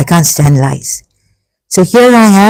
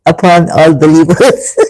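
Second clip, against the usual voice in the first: laughing disbelief. Real, not acted.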